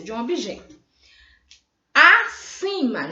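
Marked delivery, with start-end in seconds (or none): 1.9-3.1 "Acima" said slowly, higher and louder; stressed new word. Shown as a demonstration. Teacher presenting the next word to the class, slow and loud. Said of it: "junto, o acima".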